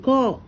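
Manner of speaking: കൊ with its o held a little long; drawn-out vowel. Shown as a demonstration. Teacher shows why it takes a long sign, lengthened o in കൊ. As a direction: stretch the o in കൊ slightly. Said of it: "ഇത്തിരി നീട്ടിയിട്ടല്ലേ നമ്മൾ പറയുന്നത്".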